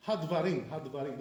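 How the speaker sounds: Hadvarim run together as had-va-rim; no vowel after the d in Hadvarim; dropped sheva. Shown as a demonstration. Teacher showing the mistake, Hadvarim with sheva dropped. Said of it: "this is a mistake".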